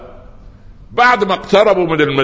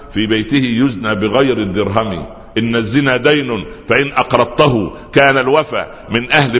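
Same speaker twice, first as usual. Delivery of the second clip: poem recitation. Acted. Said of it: "أو سيدنا الشافعي".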